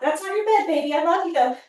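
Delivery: lifted pitch, talking to a dog; affectionate pet-owner voice; fond pet talk. Real, not acted. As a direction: gently chide a beloved dog.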